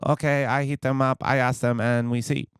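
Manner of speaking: mock Asian accent, lightly put on; imitated Asian accent. Agency lady agreeing to ask the impersonators, mock Asian accent. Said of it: "I'm not gonna not do her accent".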